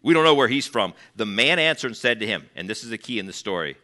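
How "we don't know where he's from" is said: scornful, looking down on him; a touch of contempt for this fella; sneering dismissal. Retold or imitated. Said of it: "So they're degrading Jesus".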